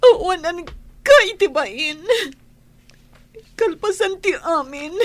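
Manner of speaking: loud betrayed outburst; angry wife shouting at a faithless husband; furious shout. Acted. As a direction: yell at him with wounded fury.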